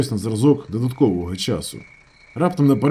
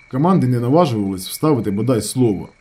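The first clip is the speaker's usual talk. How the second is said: ordinary delivery, nothing marked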